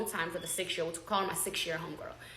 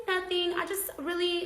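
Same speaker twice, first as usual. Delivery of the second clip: mock innocent; 10 semitones higher than usual. Mocking friend's answer.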